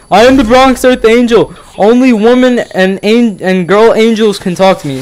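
high, put-on voice of a self-important weirdo; creepy stranger voice. Vlogger mocking the Bronx Earth Angel, high put-on voice. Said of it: "He's like".

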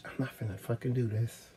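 barely getting words out past the lump; real tears welling up; choked up. Real, not acted. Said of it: "I'm finna get fucking emotional".

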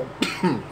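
soft dry cough; a quiet cough. Real, not acted. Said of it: "Desculpa a tosse aí".

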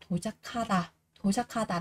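도착하다 with k and h merged into kh; aspirated k. Shown as a demonstration. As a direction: say 도착하다 as do-cha-kha-da. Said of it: "cờ sẽ được đọc thành là khờ".

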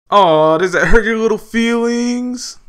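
put-on high, slow, loud baby-talk taunt; mock sympathy. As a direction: coo at them like a baby, sarcastically.

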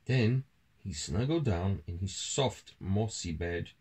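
measured, expressive storytelling; children's story narration. A narrator's reading. Adult reading a mouse tale to a child, storytelling. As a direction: read it aloud to a young child.

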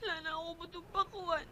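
tearful pleading promise. Acted. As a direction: beg through the tears. Begging tearfully to go back. (nagmamakaawa habang umiiyak)

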